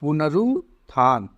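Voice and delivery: पुनरुत्थान said slowly, each syllable clear, no u after n; slow correct pronunciation. Shown as a demonstration. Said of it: "इसमें न में उ नहीं लगता है".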